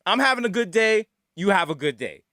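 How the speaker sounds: polite words delivered as a warning; veiled threat. Shown as a demonstration. Security guard to customer, politely threatening. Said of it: "say it in that kind of threatening way".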